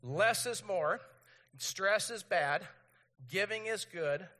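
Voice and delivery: slow, firm slogans for all to repeat; loud, measured call to recite; leading group recitation. Real, not acted. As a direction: lead the crowd in chanting along. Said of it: "would you say these four things with me".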